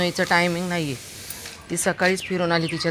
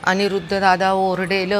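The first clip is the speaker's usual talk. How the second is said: ordinary talk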